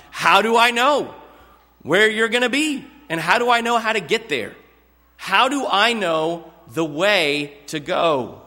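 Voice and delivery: lightly acted Thomas, pleading for the way; Thomas asking. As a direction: voice Thomas as a worried disciple asking directions. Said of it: "Is what Thomas asks".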